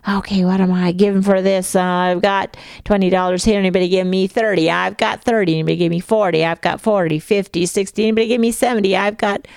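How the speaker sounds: fast auctioneer patter. Retold or imitated. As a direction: rattle off bids like an auctioneer. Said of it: "they try to sound like an auctioneer too".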